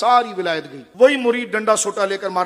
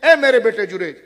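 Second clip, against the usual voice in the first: mother calling out; 3 semitones higher, 5 dB louder than usual. Retold or imitated. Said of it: "ماں نے آواز دی".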